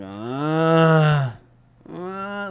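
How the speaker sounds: long drawn-out sleeper's moan; mock sleep groan. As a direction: groan like dad in his sleep. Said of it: "just making noises while he's sleeping".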